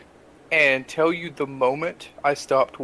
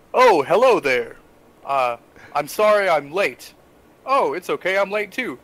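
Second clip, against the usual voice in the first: put-on chatty actors lapsing into New Zealand accents; mock New Zealand accent; New Zealand accent slipping out. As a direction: let a Kiwi accent slip through. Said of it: "they just drop into their accent".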